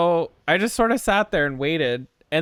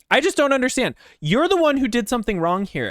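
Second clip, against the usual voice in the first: imitated higher-pitched protest; aggrieved accusation; 6 semitones higher, faster than usual. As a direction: mimic her hurt blame, starting high. Retelling her aggrieved side of argument.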